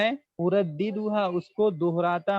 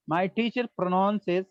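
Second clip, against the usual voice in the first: slow model phrase; much slower than usual. Shown as a demonstration. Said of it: "slow model again".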